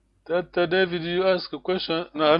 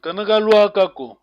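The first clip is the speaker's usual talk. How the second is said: "Kanakalwakako" louder, arched up on LWA and falling at the end; teacher's emphatic model of "Kanakalwakako", final fall; modelled tone; 3 semitones higher, 6 dB louder than usual. Shown as a demonstration. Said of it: "Very important".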